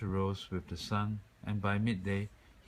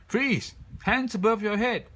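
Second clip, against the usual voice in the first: high loud commanding shout; police shout; 9 dB louder than usual. A narrator's reading. Policeman ordering the bear, loud commanding shout. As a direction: bark the order. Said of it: "there was a shout".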